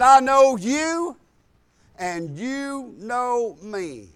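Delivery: slow, drawn-out imitation of a demon; demonic voice. Possessed man to the preacher, slow demonic voice. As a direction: draw each word out with demonic menace. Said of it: "in a deep demonic".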